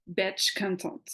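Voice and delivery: French-accented English, said quickly. Shown as a demonstration. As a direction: say batch content in her best English. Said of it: "Excusez-moi si j'ai pas un super accent anglais".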